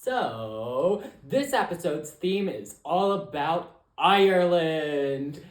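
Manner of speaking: lightly put-on announcer, slow and drawn out. Host introducing the episode's theme, playful announcer voice. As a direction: announce the theme slowly, with a showy build. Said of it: "that's my announcer voice".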